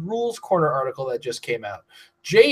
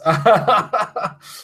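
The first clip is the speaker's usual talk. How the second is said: laughing; 5 semitones higher, 4 dB louder than usual. Real, not acted. Laughs at end of ads.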